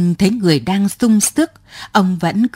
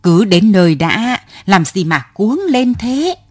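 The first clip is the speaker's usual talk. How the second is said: arguing back. Acted. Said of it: "Rồi còn lý sự".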